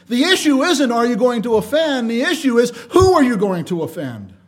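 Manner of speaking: emphatic preaching. Real, not acted. Preacher driving home the point.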